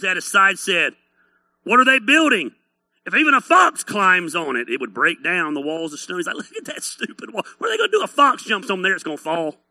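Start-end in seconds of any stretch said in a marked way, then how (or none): 1.6-6.2 jeering scoffer, pushed at the start; mocking. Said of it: "Just mocking them, ripping them up". 6.4-9.6 mocking. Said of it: "Just mocking them, ripping them up".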